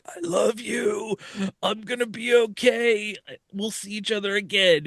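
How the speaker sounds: lightly voiced son soothing his mother; gentle farewell. Possessed body comforting his mom.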